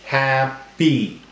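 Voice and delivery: "Happy" broken as hap, pee; split into syllables. Shown as a demonstration. Teacher showing the class syllables, syllable by syllable. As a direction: say each syllable separately. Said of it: "that's a different syllable".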